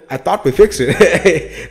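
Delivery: slow, laughing parody of a politician; laughing mock quote. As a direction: drag it out while cracking up. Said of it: "That's Kamala Harris in every fucking interview".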